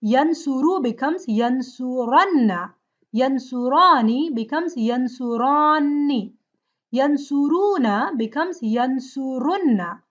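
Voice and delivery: yansuranna with a long doubled nn, said slowly; slow pronunciation demo. Shown as a demonstration. Teacher slowly models the emphatic noon forms. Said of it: "with the noon of emphasis".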